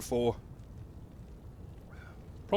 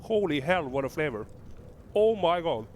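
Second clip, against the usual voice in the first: stunned exclamation; 5 semitones higher than usual. Real, not acted. First bite of super-hot pepper.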